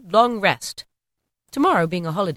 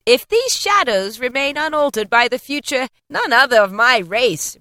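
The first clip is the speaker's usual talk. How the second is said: louder, solemn warning; stern ghost; 5 semitones higher, 5 dB louder than usual. A narrator's reading. The ghost warning Scrooge, stern and solemn. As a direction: weigh each word.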